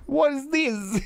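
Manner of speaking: excited yell like a voice actor losing his cool; hyped-up slip. Retold or imitated. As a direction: suddenly break into a pumped-up shout mid-calm. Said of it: "when he gets really hyped up about something".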